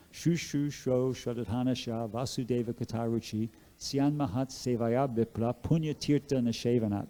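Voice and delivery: slow, measured chanting of the verse; Sanskrit verse recitation. Acted. Speaker reciting Bhagavatam verse to listeners, slow and measured. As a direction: recite it slowly like scripture.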